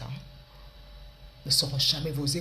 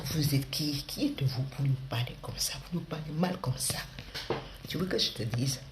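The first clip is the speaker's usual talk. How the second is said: put-on Ivorian accent. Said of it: "l'accent de ma copine ivoirienne".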